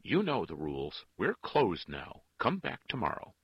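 loud, firm, cross refusal; short answer. A narrator's reading. Nun turns a father away after hours, curt. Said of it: "Her answer was short".

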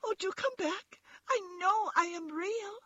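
very high, tearful little rabbit; calling after them. A narrator's reading. Toy rabbit begs vanished rabbits to return, high and tearful. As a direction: plead in a tiny voice, near tears. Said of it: "called the little rabbit".

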